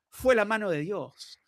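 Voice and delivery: cheeky laughing reply in Spanish; Maradona, laughing. Retold or imitated. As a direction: imitate the sly star chuckling through the line. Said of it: "And he goes".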